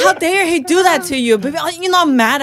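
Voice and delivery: high-pitched indignant protest; scandalised on the partner's behalf, pitch soaring; retold boiling outrage. Retelling her reaction to her boyfriend, boiling mad. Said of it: "I was boiling".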